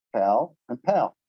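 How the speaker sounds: pal and pal, plain p then aspirated p, slow; Korean p contrast. Shown as a demonstration. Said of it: "Here's one I tried this morning".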